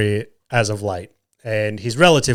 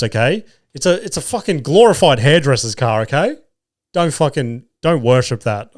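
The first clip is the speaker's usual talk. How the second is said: mock offended rant; 2 semitones higher than usual. Dad scolding his sons for praising Jeeps, mock indignant. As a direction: defend the old ute like it's a sacred object, mock outrage. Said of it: "I was, I was so offended".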